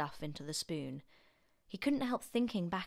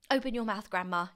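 louder, raised urgent call; cried out; 4 semitones higher, 6 dB louder, faster than usual. A narrator's reading. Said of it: "he cried".

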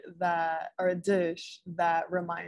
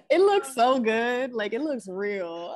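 laughing; 4 semitones higher than usual. Real, not acted. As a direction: laugh while gushing over the food in the painting. Laughing while admiring a painting.

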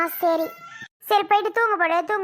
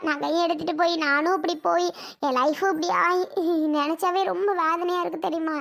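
distressed, sobbing confession to mother; tearful lament. Acted. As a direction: lament with a catch of crying. Tearful lament over ruined life.

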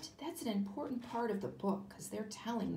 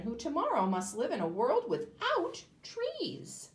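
high, earnest anteater; an anteater warning about the future; 6 semitones higher than usual. Acted. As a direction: plead it high and steady. Anteater speaks to man.

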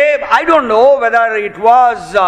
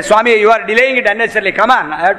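impatient plea; faster than usual. Retold or imitated. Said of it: "focus and say".

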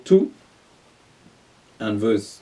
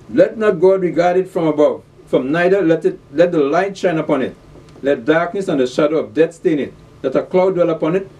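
raised, declaimed Bible verse; scripture reading; 4 semitones higher than usual. Acted. Preacher reads of the silent mourners, declaimed scripture reading. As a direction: proclaim the verse to the congregation.

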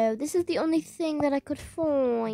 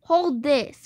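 firm, louder command; loud order; 7 dB louder than usual. Real, not acted. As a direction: bark it at the sibling. Shouting at sibling.

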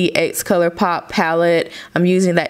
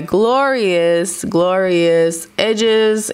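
proud drawn-out boast; much slower than usual. Real, not acted. Proudly showing off her edges.

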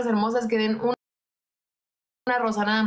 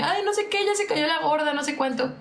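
higher sneering mimicry of the insults; mocking trolls; 4 semitones higher than usual. A light mock of trolls calling her fat. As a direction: parody them in a high taunting voice. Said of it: "empezaron a decir como de".

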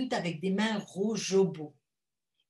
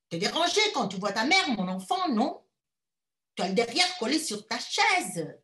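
scolding mother; 4 dB louder than usual. Acted.

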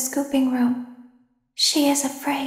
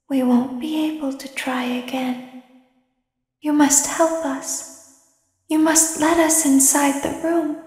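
ordinary talk, nothing marked

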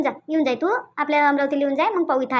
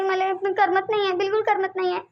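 tearful; 3 semitones higher than usual. Acted. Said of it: "तू रडणं बंद कर बरं पहिले".

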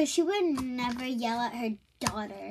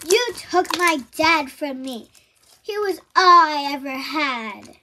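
louder, furious accusation; angry; 7 dB louder than usual. Acted. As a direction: hurl the blame at her twin. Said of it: "turned around so angry".

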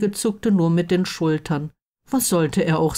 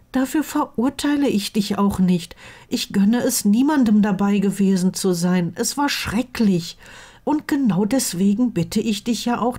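higher-pitched pleading voice, lightly played; earnest best friend; 5 semitones higher than usual. Friend begging him not to decide at once, earnest. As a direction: gently urge the friend to reconsider.

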